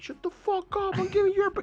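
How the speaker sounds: high, hammed-up worker snapping back; pizza guy yelling. Storyteller voicing Domino's guy yelling back at her, high mock shout. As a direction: play the annoyed pizza guy shouting through the door. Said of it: "And the guy's like".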